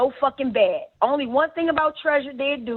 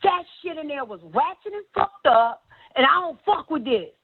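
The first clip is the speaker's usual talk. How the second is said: mock angry; 5 semitones higher than usual. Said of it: "She's like".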